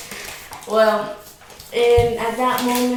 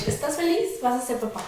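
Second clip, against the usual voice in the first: mildly sarcastic question, softer; softly mocking, lightly acted; retold sarcasm; 5 dB quieter, faster than usual. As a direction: imitate a sarcastic congratulation in Spanish. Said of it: "I said it, like, sarcastically".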